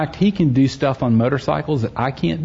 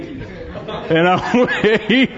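"wait" stretched very long and higher; drawn-out WAIT; 7 semitones higher, much slower than usual. Retold or imitated. Dad waiting for his son to come round the church, "wait" drawn out. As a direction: drag out "wait" for comic suspense.

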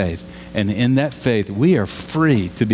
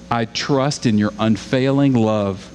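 slow trusting read. Retold or imitated. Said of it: "listen to this".

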